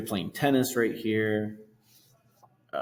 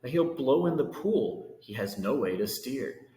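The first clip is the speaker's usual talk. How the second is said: lively rhyming read-aloud; storybook reading. A narrator's reading. Reading Horton to kids, lively rhyming storytelling. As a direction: read the verse to children with bounce. Reads picture book aloud.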